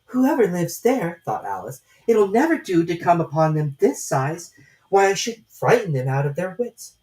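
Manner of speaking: Alice musing aloud. A narrator's reading. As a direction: puzzle it out to herself.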